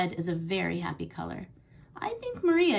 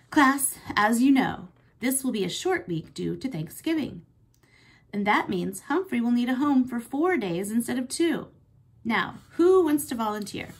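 teacher voice; 3 semitones higher, 4 dB louder than usual. Acted. Teacher addresses the class.

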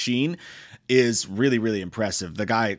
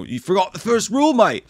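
high, loud mock threatening drifter; hammed-up menacing bushman; menacing outback killer; 10 semitones higher, 6 dB louder than usual. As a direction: jeer it at the tourists like the killer. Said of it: "at one point he says".

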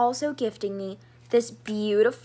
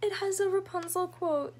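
hushed, moved whisper; real emotional whisper; 8 semitones higher, 6 dB quieter than usual. Real, not acted. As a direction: whisper it, close to tears. Reading a touching note.

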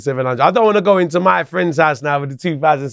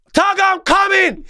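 very high, drawn-out breezy reassurance; Joe on the phone; slower than usual. Retold or imitated. Friend promising he's on his way, high and carefree.

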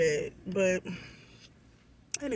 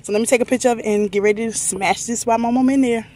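excited; 6 dB louder than usual. Real, not acted. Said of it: "I'm so excited".

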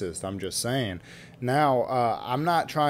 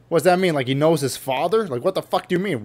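pissed off; 3 semitones higher than usual. Retold or imitated. Retelling his angry reply to the guy at the party, mildly heated. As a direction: snap back, offended. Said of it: "I get pissed off".

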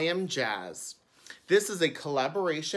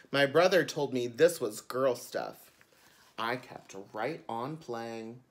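bright storytime reading; children's book narration. A narrator's reading. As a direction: read it like a picture book to kids. Reads the book aloud.

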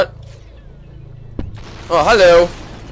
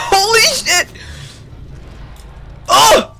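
high, laugh-broken holy shit; 10 semitones higher than usual. Real, not acted. Streamer to chat, overwhelmed, laughing it out. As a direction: blurt it through a burst of laughter. Laughing after wild moment.

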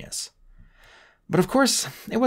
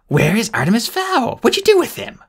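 furious shout; 12 semitones higher, 4 dB louder than usual. Acted. Spiro screaming at bodyguards.

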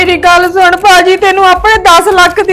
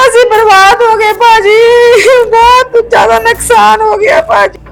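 crying on the phone; 3 semitones higher than usual. Acted. Sister phones in tears about loss.

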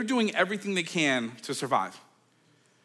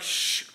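hush. Retold or imitated. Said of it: "the waves are like".

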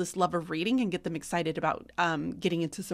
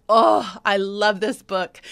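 delighted gush; 8 dB louder, slower than usual. Real, not acted. Gushing over a favorite book.

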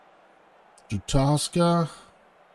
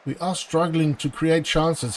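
usual speaking voice

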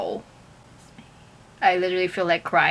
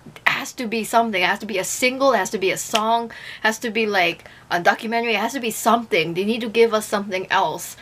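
frantic speculating; 2 semitones higher, faster than usual. Retold or imitated. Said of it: "driving myself crazy".

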